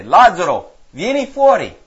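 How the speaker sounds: calling out loud to a dead man; a commanding shout across the tomb. Acted. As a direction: proclaim it in a ringing shout. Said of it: "Gesù gridò ad alta voce".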